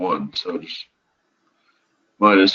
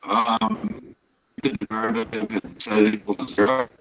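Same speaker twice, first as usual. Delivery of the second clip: breaking-up call audio, fast and choppy; glitchy robotic call; 4 dB quieter than usual. Real, not acted. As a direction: voice dropping out over a bad connection. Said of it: "Your audio is breaking up a little bit".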